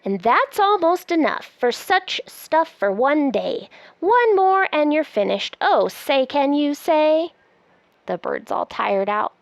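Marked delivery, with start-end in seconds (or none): 0.1-7.3 lively, sing-song picture-book reading; reading to children. Acted. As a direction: read it aloud like a bedtime book. Reads the book aloud.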